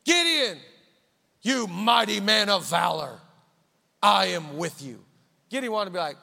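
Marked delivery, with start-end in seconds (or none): 0.0-5.0 booming angelic proclamation; proclaiming angel. Acted. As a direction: announce it grandly like an angel. Angel's call repeated.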